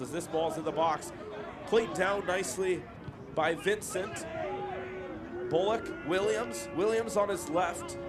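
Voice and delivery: measured match commentary, lifting on players' names; football commentator calling the play; live play-by-play. Real, not acted. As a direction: follow the ball phrase by phrase.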